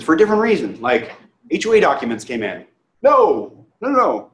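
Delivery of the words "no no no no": higher, louder repeated no; mock the buyer's flat refusal, pitched up; imitating the client refusing. Client refuses the deal again.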